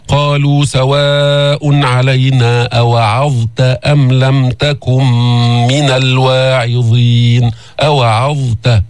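slow chanted recitation with the ظ clearly sounded; tajweed chant; Quran recitation. Shown as a demonstration. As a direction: recite it slowly and melodiously.

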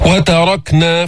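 slow chanted وتركنا with a full, dark ر; heavy ra. Shown as a demonstration. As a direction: thicken the ر in وتركنا. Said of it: "فخم الراء".

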